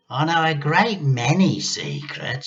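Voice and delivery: grandma luring George closer; luring witch. A narrator's reading. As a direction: beckon him with secrets.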